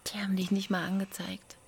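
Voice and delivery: hushed, voiceless whisper. Acted. Answering her partner's apology in a whisper.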